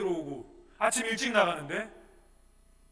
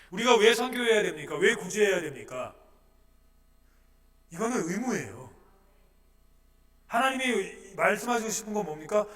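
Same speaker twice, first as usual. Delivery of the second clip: loud, high, driving sermon voice; full-force preaching; 6 semitones higher, 9 dB louder than usual. Acted. Pastor preaching loudly to the congregation. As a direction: preach it hard to the back rows.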